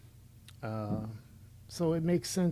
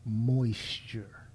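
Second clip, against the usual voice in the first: a dry, whispered one-word verdict; breathy mock verdict; 4 semitones lower, 5 dB quieter than usual. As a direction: whisper it as a sly punchline. Mocking a man crying on camera.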